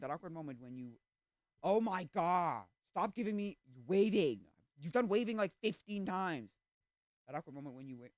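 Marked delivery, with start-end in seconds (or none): 1.6-6.5 slow, high, loud exasperation; exasperated complaint. Real, not acted. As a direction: draw it out, fed up. Fed up with repeated waving meme.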